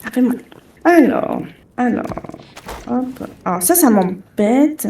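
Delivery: talking with a bitten, sore tongue; swollen tongue. Real, not acted. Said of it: "je me suis, euh, mordu la langue".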